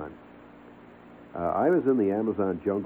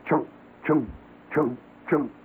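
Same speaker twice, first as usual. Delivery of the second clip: echoing chop noise; 5 semitones higher than usual. Retold or imitated. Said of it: "You hear".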